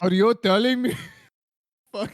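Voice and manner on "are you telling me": mock Indian accent. Comic starting a dubbed Neo bit, Indian accent. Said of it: "I believe in your Indian accent".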